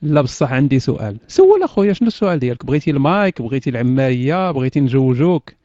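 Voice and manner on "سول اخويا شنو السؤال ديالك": calling out. Real, not acted. Inviting a question, calling out.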